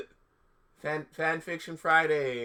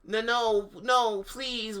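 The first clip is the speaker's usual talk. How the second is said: higher, mock pleading; hammed-up desperate begging; a touch of a frightened plea; begging sadly; 10 semitones higher, 4 dB louder, much slower than usual. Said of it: "we begged sadly".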